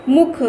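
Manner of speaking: मुख with a short u; short quick vowel. Shown as a demonstration. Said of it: "ऐसे जल्दी से बोलेंगे".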